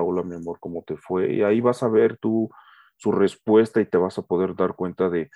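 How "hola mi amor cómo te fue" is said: gentle greeting. Shown as a demonstration. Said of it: "salúdalo, salúdala".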